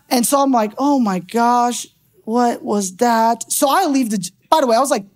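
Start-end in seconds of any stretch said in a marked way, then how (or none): 0.8-3.5 retold disbelief. Retold disbelief after failed prayer.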